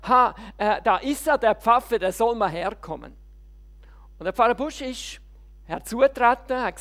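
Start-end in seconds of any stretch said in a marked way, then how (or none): 0.1-3.1 loud mock call across a square. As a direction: heckle a passing pastor, loudly. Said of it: "er ruft da".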